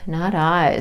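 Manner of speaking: snorting pig voice; piglet voice. Acted. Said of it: "snorted the pig".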